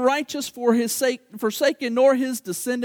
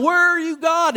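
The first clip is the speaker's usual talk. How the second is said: mock plea; 5 semitones higher, 4 dB louder than usual. People calling out to God.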